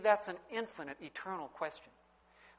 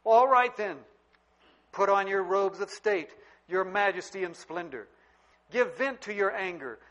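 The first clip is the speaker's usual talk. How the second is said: booming voice of God; 3 semitones higher, 7 dB louder than usual. Retold or imitated. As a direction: thunder it out as God speaking to Job. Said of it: "did you get God's answer".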